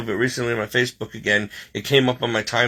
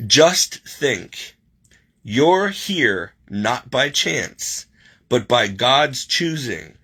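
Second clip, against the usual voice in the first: slow, moved reading with long pauses; holding back tears; much slower than usual. Real, not acted. Reading the card's message to viewers, holding back tears. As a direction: read it slowly, trying not to cry. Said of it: "I'm trying not to cry now".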